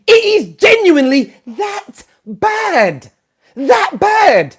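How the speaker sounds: half-sobbing disbelief; near tears. Real, not acted. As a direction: let the voice break on it. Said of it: "I might even burst into tears".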